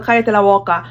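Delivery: Spanish with a Jamaican accent; teacher's Spanish, tinged with Jamaican. Shown as a demonstration. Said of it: "that Jamaican accent still comes out".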